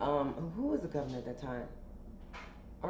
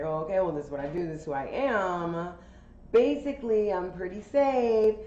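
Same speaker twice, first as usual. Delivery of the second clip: pushy stranger; 3 semitones higher, 4 dB louder than usual. Retold or imitated. Quoting the driver's pitch.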